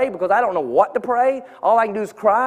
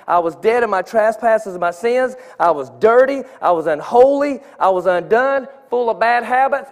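each line punched louder, rising to a shout; emphatic preaching; 4 dB louder than usual. Real, not acted. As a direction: hammer every word home from the pulpit. Preacher listing his past sins.

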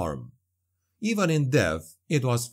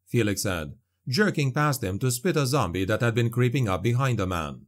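ordinary delivery

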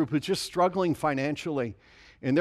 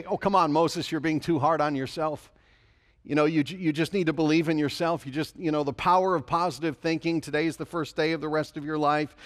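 mock pep talk. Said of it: "he doesn't say".

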